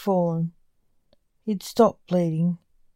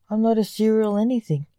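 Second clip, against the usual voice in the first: snapping; 3 semitones higher, faster than usual. Acted. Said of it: "snapped Lance".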